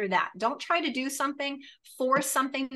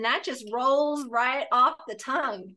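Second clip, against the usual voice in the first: Southern Belle accent; 2 semitones higher than usual. Shown as a demonstration. Showing a client her cold-calling voice, Southern Belle accent. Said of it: "using my best Southern Belle accent".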